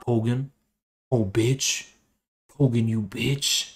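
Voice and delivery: low, soft, creepy gloating; low menacing taunt. Acted. Streamer taunts his rival Pogan, low and softly menacing.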